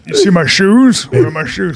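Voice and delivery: lightly put-on dragon voice; dragon-like man's voice. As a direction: mimic a huge man calling for his shoes. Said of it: "sounded like he was a dragon".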